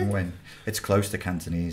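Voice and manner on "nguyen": "Nguyen" as one syllable, like win; soft Vietnamese pronunciation. Shown as a demonstration. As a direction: let "Nguyen" start softly on w. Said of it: "it's so soft".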